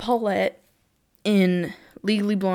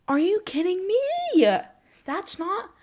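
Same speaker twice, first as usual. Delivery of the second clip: mock outrage; 10 semitones higher than usual. Real, not acted. Outraged at Spotify Wrapped.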